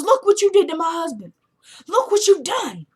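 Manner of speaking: high, strange, bitter witch voice; accusing witch mother. Retold or imitated.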